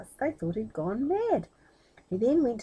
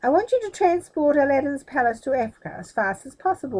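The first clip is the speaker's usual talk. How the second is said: commanding order; 4 semitones higher, 6 dB louder than usual. A narrator's reading. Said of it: "ordered the magician".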